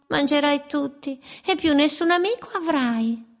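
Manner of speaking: mangy birds, mocking. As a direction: tease the wolf from the branch. Birds give the rhyming warning.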